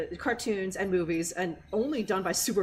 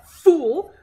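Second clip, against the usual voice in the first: "Fool" blasted much louder; 5 semitones higher, 11 dB louder than usual. Shown as a demonstration. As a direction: hit them with a loud "Fool". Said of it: "if you hit them with the".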